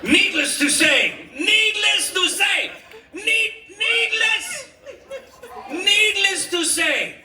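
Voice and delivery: slow, high, hammed-up suitor; slow high-pitched flirting. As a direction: stretch it out like a smooth talker. Owner flirting, drawn out.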